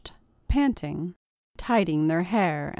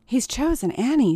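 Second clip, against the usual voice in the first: higher-pitched announcement, jumping on "Annie"; chorused exclamation; 6 semitones higher, 4 dB louder than usual. A narrator's reading. Girls announcing his choice together, exclaiming. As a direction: call it out like a group of girls. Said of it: "said the girls in chorus".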